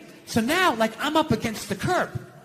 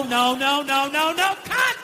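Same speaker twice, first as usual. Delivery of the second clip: mock director's cut; 3 semitones higher, 5 dB louder, slower than usual. Film director stopping a scene.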